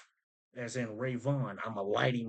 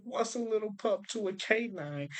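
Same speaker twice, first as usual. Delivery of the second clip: much higher, put-on voice for the line; mock lyric quote; 9 semitones higher than usual. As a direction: say the line high and put-on, like quoting the rapper. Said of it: "like he said".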